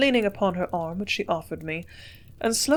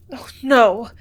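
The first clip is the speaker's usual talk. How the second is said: quick cry; 3 semitones higher, 8 dB louder than usual. A narrator's reading. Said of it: "she cried quickly".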